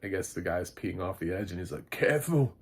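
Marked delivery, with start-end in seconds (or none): 1.9-2.5 hammy Aussie voice, higher; a clumsy Aussie accent; bad Australian accent. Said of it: "really bad Australian accents".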